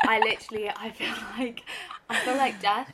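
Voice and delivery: tired, groggy hungover voice. Real, not acted. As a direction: speak like you feel like death. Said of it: "come in hungover once".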